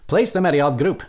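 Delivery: lightly put-on British accent. Player reads the app's instruction for fun, playful British accent. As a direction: read it out in mock British. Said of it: "with a British accent".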